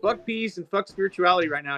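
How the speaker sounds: high, loud inner voice egging him on; the mushroom's voice. Retold or imitated. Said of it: "The mushroom kicked in and was like".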